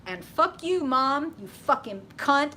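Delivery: high, loud pretend fury at mom; mock journal rant. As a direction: spit it out like an angry diary entry. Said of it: "pull out the journal and be like".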